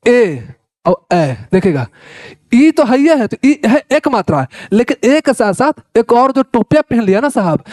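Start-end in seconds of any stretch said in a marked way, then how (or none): 0.1-1.4 ए then a long stretched ए; drawn-out vowel demo. Shown as a demonstration. Teacher stretching ए to show a long vowel. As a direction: stretch the second ए much longer. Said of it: "जैसे ई देखिएगा".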